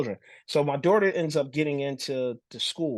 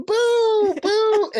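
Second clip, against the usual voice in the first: high, loud, drawn-out heckle; imitating toddler's booing; 9 dB louder than usual. Dad mimicking his little son at auditions, high loud booing. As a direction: boo like a gleeful little kid joining Dad. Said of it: "And he'd be".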